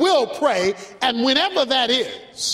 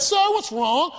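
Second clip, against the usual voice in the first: put-on a higher, curious little boy's voice; a lightly voiced concerned child; little boy asking; 4 semitones higher, slower than usual. Boy asks a crying man.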